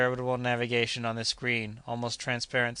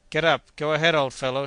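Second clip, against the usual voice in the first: louder, higher gleeful urging; delighted shout; 3 semitones higher, 7 dB louder than usual. Acted. Joe cheering on the elephant, a gleeful shout. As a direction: urge it on like a carter. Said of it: "shouted Joe with delight".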